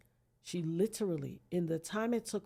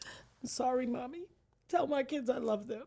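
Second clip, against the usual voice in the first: tearful farewell; 4 semitones higher than usual. Retold or imitated. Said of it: "I was just like".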